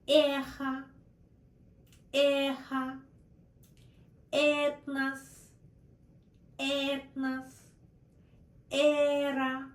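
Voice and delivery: word list read out for repeating; Russian э demo. Shown as a demonstration. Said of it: "The next vowel is э".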